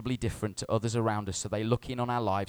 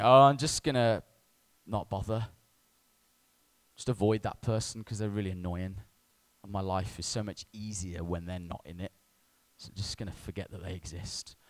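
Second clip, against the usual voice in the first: can't be bothered; 3 semitones lower than usual. Acted. Acts out avoiding an annoying coworker.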